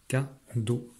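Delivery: "Cadeau" in two parts, a pause between ca and deau; split into syllables. Shown as a demonstration. Teacher marking syllable arcs, each part alone. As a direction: separate the two beats of "Cadeau". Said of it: "les syllabes sont les morceaux de mots".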